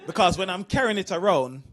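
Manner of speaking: put-on low, earnest old dad asking a favour; lightly voiced dad asking his son for help; dad's request. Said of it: "he said to me".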